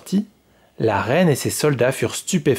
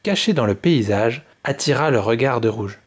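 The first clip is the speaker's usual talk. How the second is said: story narration. A narrator's reading. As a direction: read the tale to children, evenly. Narration between quotes.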